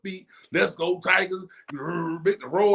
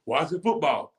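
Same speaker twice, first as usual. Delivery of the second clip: mock bored fan. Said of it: "you can be bored".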